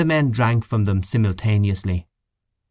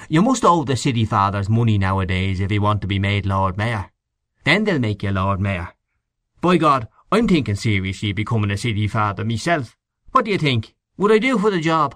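lightly raised, joking politician talk; voiced Mr Henchy. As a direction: tease the room, rising to a cheeky question. Henchy jokes about Lord Mayor.

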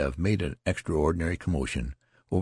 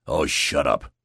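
roared; 3 semitones lower, 3 dB louder than usual. Acted. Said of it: "roared the tall private".

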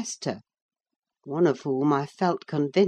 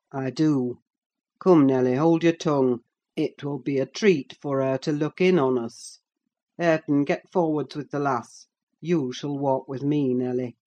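put-on smooth older man. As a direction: coax them in, falsely kind. Heathcliff commanding.

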